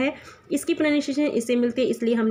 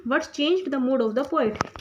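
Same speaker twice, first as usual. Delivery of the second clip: slow question reading; much slower than usual. Shown as a demonstration. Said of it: "next third question".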